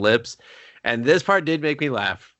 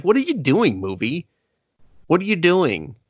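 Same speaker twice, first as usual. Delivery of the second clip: exasperated; 6 semitones higher than usual. Retold or imitated. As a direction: throw your hands up at the movie. Exasperated at the movie's romance.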